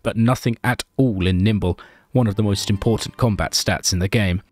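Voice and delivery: measured storyteller's narration; story narration. Acted. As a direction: narrate the game like a tale.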